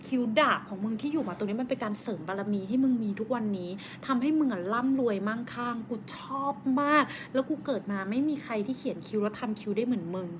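very soft, low, confiding compliment; earnest praise. Real, not acted. Friend praising friend's tattooed eyebrows, hushed and earnest. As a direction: hush it down as if deeply moved.

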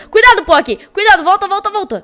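loud, rushed warning; urgent warning shout. Real, not acted. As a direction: yell at him to get back. Warning teammate of danger.

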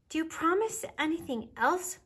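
put-on high child voice, rising; little bear cub. A narrator's reading. Baby Bear asks Mama on the path home, little cub voice. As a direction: ask hopefully in a small bear's voice.

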